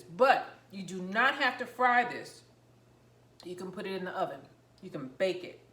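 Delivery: talking while chewing; mouth full. Real, not acted. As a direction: speak around a mouthful of food. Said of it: "Sorry to talk with my mouth full".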